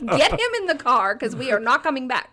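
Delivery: loud, laughing mock scolding; exasperated scolding. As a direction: tell the kid off half laughing. Mom scolds child at park.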